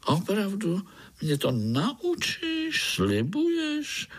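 high, slow eager pleading; eager high frog. Acted. Frog begs the boy to teach her, high and eager. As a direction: beg for the promise, hopeful.

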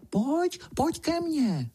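mouse imitating a sly coaxing call, high and slow; wheedling little voice. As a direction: coax sweetly, like a lure in the corn. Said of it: "šeptá úlisným hláskem".

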